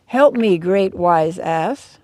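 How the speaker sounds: pleading pig. Pretend. Pig begs the donkey on the hill, a loud slow plea. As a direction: beg the wise ass for help, drawing out the last words.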